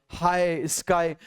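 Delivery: "हाई" and "स्काई" set apart with matching endings; showing the rhyme. Shown as a demonstration. Teacher proving two words sound the same, showing the rhyme. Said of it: "इन दोनों का sound same होगा".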